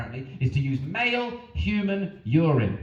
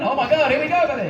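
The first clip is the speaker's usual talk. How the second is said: mock excited cheer; 10 semitones higher, 6 dB louder than usual.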